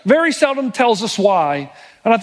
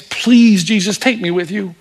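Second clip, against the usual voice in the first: pleading. Retold or imitated. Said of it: "begged to go with him".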